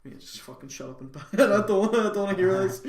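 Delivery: building to a loud, high mock rant; exasperated. Market trader snapping at a customer, rising to a loud rant. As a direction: blow up at the customer. His own fed-up retort.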